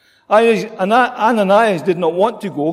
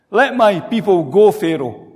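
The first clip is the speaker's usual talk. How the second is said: bold Moses; 3 dB louder than usual. Retold or imitated. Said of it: "Bold, courageous".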